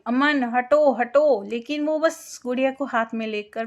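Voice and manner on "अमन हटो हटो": louder, urgent cry to get out of the way; shouting a warning. Acted. She screams at Aman to move from the truck. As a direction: yell the name, then the warning twice. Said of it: "मैं चिल्लाई".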